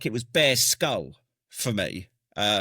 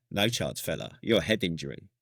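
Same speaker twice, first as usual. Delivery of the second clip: medic's refusal; 7 semitones lower, 4 dB quieter than usual. Retold or imitated. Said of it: "it's like".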